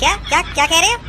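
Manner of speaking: quick, sharp, offended demand; indignant outburst. Acted. Patient bristling at the doctor's offer, indignant. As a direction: snap back, outraged at the doctor. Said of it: "गुस्सा मत हो".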